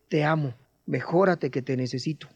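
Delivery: soft and low, close to his ear; susurro al oído. Retold or imitated. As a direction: tell him gently, as if at his bedside. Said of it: "se acerca al oído y le dice". (susurrado al oído del hijo)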